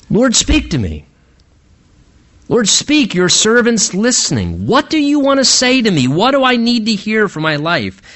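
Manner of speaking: lightly acted plea, lifting in pitch; modelled eager, prayerful appeal; earnest prayer. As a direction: ask God openly, ready to listen.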